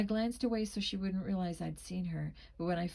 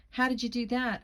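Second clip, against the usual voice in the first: raised, higher demanding question; 4 semitones higher, 6 dB louder than usual. A narrator's reading. Narrator voices someone running up to demand an explanation, demanding. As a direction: demand it, louder and pitched up. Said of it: "I demanded".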